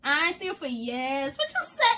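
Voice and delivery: high, loud friendly greeting; greeting Kurt now that she can see, high and loud; eager hail. Retold or imitated. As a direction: call out to an old friend, delighted. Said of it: "I can hail you like".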